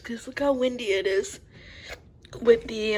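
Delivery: hiccuping while talking; hiccups. Real, not acted. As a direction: talk through the hiccups. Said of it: "sorry, I have the hiccups".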